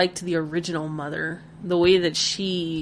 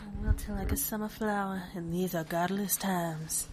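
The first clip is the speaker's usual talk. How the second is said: put-on mild Southern accent; 9 dB quieter than usual. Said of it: "She should have had a Southern accent".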